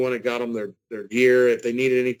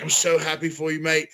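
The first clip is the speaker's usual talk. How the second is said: put-on British accent, slightly raised; lightly done British accent quote; 3 semitones higher than usual. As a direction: attempt your best British mate voice. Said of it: "in the best British accent I could ever give".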